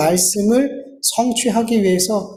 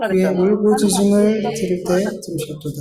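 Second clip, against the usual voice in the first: even, level congregational recitation; scripture reading aloud; 2 semitones lower than usual. Acted. Preacher reads David's praise with the congregation, steady recitation. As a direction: read steadily in unison, little pitch movement.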